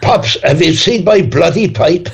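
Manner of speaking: high-pitched, comic attempt at Cork; grandfather's Cork accent. Guest recalling his grandfather's pipe complaint, shaky Cork accent. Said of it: "don't know if that's a Cork accent".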